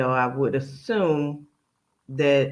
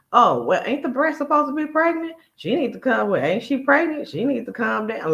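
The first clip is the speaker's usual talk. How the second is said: mock Tasha; 9 semitones higher than usual. Mocking Tasha's backstage comments in a high voice. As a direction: squeal it out as a mocking parody. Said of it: "you hear Tasha saying".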